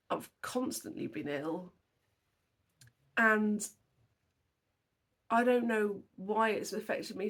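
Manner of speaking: on the verge of tears. Real, not acted. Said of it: "'cause I'm gonna cry again".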